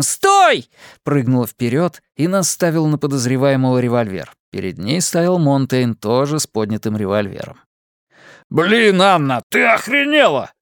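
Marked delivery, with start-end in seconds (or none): 0.0-0.7 sudden high yell of stop; shout. A narrator's reading. Anna yelling at the suspect in the bushes, a loud shout. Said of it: "она с криком". 8.5-10.5 startled angry yell, high and loud. A narrator's reading. Monteyn yelling at Anna after the scare, angry shout. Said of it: "заорал он".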